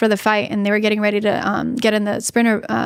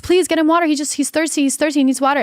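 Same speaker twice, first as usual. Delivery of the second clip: mild mock yell for water; retold yell; 4 semitones higher, faster than usual. Begging the paramedics to give her husband water, mild mock yell. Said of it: "like, yelling at the paramedics".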